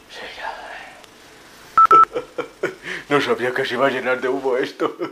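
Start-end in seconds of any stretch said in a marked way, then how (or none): 2.8-5.1 laughing. Real, not acted. Laughing at smoke mishap.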